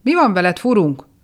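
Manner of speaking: worried friends yelling at the entranced goblin; shouting. Acted. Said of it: "kiáltottak rá a tippantók".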